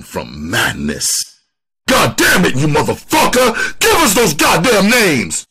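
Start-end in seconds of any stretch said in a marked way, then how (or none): 1.9-5.4 furious high, booming shout; sudden full-force enraged yell; booming outburst. Acted. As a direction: explode right into the suspect's ear. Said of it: "sudden outburst, his voice booming".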